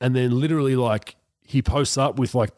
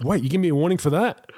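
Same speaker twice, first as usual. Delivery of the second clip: laughing disbelief; 5 semitones higher than usual. Retold or imitated. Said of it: "And I was like".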